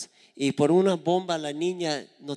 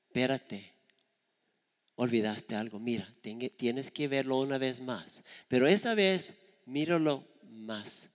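gentle explanation. Retold or imitated. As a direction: lead her gently to see it. Padre guía a hija con calma. (padre paciente, voz suave)

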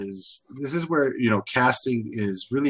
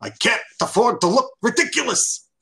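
imitating Waltz; 5 semitones higher than usual. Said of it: "it's Waltz from".

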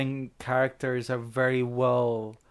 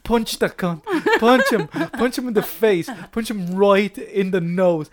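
mock egging-on; 5 semitones higher, 4 dB louder than usual. Viewer egging on the hero.

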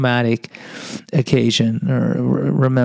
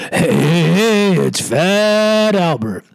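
higher, sneering playground taunt, drawn out at the end; bully taunt; 5 semitones higher, much slower than usual. Retold or imitated. Bully jeering at the fat kid in the locker room, high mocking taunt. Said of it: "slur the perfunctory".

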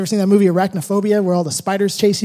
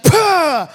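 chop sound; 5 semitones higher, 4 dB louder than usual. Retold or imitated. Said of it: "It's like".

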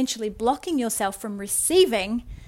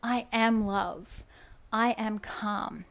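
slow, settled affirmation said as if believed; calm affirmation; slower than usual. Shown as a demonstration. Coach demonstrating an affirmation, slow and calm. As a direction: let each "I am" land slowly and calmly. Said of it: "So being like".

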